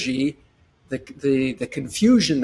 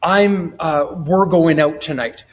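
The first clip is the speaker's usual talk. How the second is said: confident husband announcing plans. Retold or imitated. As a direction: announce the date night to your wife, upbeat and sure. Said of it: "you go".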